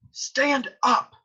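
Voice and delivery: high-pitched, insistent command; urgent order. Acted. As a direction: order him onto his feet. Friar orders Romeo to stand.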